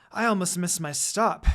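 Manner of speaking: catching breath after rushing off the train; breathless, winded line. Acted. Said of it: "as I catch my breath".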